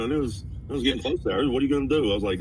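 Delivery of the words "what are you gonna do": higher, hammed-up Brooklyn wiseguy accent; teasing a friend in a mock Brooklyn mobster voice. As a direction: play a cartoon Brooklyn mobster. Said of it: "a little Brooklyn come out".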